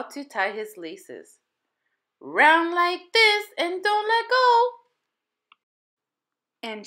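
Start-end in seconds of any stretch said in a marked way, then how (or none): 2.2-4.8 high, loud, slow instruction; child instructing. A narrator's reading. Terry showing Ling Sung how to tie laces, slow and firm. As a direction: coach him through the knot.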